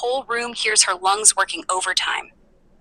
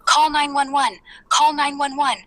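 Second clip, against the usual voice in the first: higher-pitched, restrained mock scream; 6 semitones higher than usual. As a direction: repeat it like an imitated plea for help. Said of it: "starts screaming".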